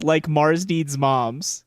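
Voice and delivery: slow, deadpan, rising mock lyric. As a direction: drawl it like the lyric it parodies. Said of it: "what if instead that line said".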